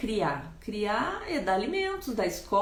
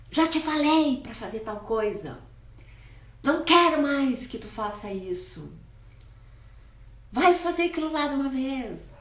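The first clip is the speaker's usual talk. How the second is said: stern order; 4 semitones higher than usual. Retold or imitated. Authoritarian father ordering son.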